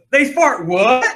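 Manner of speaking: ear-splitting scream, very loud and shrill, acted out. Retelling what a lady called out in front of a presenter, retelling a very loud shout. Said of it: "In the loudest voice I've ever heard".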